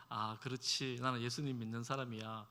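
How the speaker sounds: soft inner murmur, held back; quiet to oneself. Shown as a demonstration. Believer quietly telling himself his faith, softly. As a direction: say it softly under your breath. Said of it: "당당하게 큰 소리 치면서".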